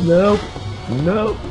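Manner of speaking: high cries of dismay; dismayed cry. Real, not acted. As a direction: yelp as it all goes wrong. Another cart crashes into him.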